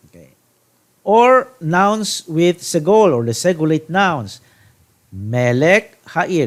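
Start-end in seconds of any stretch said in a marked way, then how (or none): 5.1-6.5 Melech Ha'ir said slowly, each syllable set apart; slow modelling. Shown as a demonstration. Teacher modelling Hebrew for class: slow and deliberate. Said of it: "Notice the segolate here".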